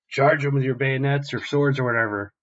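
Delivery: high, loud rallying command; shouted order. Retold or imitated. Captain sending marines into the fight, shouted order. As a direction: yell at the troops to charge.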